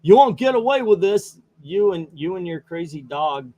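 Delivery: high, loud furious outburst; Joker exploding. Acted. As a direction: blow up at the warden. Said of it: "causing Joker to kind of explode".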